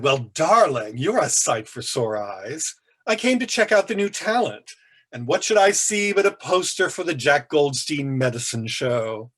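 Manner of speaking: a lightly voiced camp older man, a touch theatrical; arch art-world raconteur. Paul greets his young friend after the lecture, lightly arch. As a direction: play him as a grand, amused gossip.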